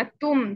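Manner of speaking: तुम with air pushed through the त; correct breathy tum. Shown as a demonstration. Teacher modelling the airy तुम for students. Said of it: "तुम वाली sound आनी चाहिए".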